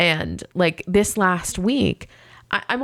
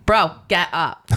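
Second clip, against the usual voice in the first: mock wake-up call; slower than usual. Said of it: "I'm the voice that you wanna hear right when you wake up".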